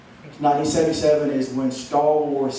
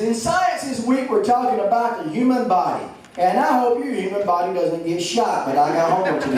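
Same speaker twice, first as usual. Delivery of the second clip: put-on kid voice; 6 semitones higher than usual. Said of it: "Then Cody says".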